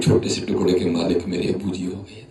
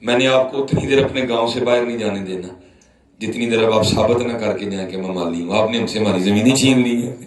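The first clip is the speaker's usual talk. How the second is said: put-on angry old man; 2 semitones higher than usual. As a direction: retell the old man's protest with some heat. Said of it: "مجھے غصے میں کہتے ہیں". (غصے میں بابا جی کی نقل)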